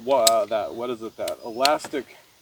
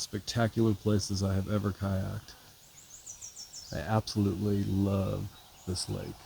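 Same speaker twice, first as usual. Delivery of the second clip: hushed, near-silent whisper; soft whisper on a still lake; 2 semitones lower, 9 dB quieter than usual. Real, not acted. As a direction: whisper so as not to break the calm. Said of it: "I don't know why I'm whispering".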